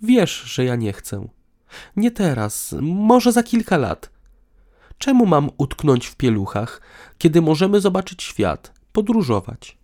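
high-voiced woman pleading her case; bold. A narrator's reading. Woman resists having children now, boldly high-pitched. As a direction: speak up in a high female voice. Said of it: "odważnie podjęła temat".

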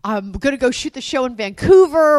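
eager, emphatic acted pep talk; upbeat enthusiasm. Partner imagining their dream move talk, upbeat enthusiasm. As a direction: pitch it as a grand adventure. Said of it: "you and I are like".

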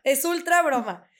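giggling through a quoted denial; laughing retort. Retold or imitated. Friend retelling her reply, laughing as she speaks. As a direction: laugh while insisting it's a joke. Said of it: "y yo".

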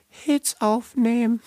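words pushed out with a burp. Real, not acted. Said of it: "Ich bin immer so viel am Rülpsen".

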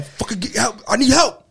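loud, high-pitched imitated sobbing plea; retold crying. Son begging his mother to believe him, re-enacted crying. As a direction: act out crying down the phone to mom. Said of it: "and I start crying".

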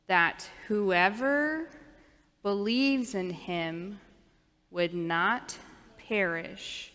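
drawn-out recitation, words spaced with pauses; said slowly. Shown as a demonstration. Pastor reciting John three sixteen with the children, slowly. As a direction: lead the children word by word, slowly. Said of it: "we're gonna say it slowly since we're learning it".

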